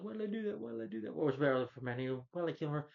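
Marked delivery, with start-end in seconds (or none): 0.0-0.6 mock anguish. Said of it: "He's like". 0.6-1.1 mock anguish. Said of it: "He's like".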